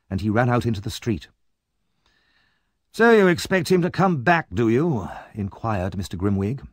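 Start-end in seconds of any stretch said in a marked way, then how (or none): 2.9-5.1 put-on high, loud, fierce old man; a fierce old gentleman sizing up the boy; gruff old gentleman. Grimwig doubts Brownlow.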